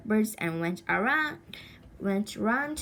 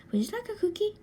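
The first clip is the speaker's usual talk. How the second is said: kindly aunt; 12 semitones higher, much faster than usual. Acted. Aunt offers cookie.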